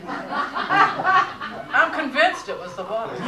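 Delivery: slow punchline through real laughter; laughing. Real, not acted. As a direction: deliver the joke while cracking up.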